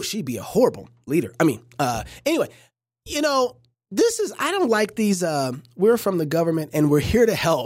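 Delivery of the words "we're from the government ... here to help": laughing mock quote. Mocking government slogan.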